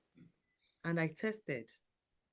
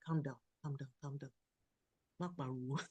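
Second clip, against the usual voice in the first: softer, hushing his wife; soothing calm down; 3 semitones lower, 9 dB quieter than usual. Retold or imitated. Husband calming his screaming wife: soft hush. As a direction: settle her down gently. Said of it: "Just calm down".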